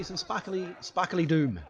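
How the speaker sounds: chuckling over the phrase; laughing. Real, not acted. Joking about firework mortars, laughing. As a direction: giggle through sparkly doom.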